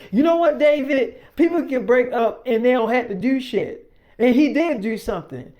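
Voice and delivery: put-on indignant girlfriend. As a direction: hit her comeback hard and high. Millie voiced, heated argument.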